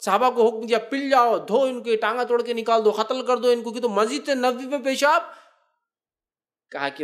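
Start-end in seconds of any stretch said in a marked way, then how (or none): 0.8-5.2 a higher, mildly heated imitation; mock angry companions. Companions shouting at the Bedouin, mildly angry. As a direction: rush out the outraged order.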